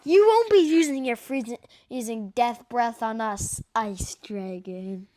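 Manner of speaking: a hint of a gloating villain; a menacing dragon queen taunts her captive.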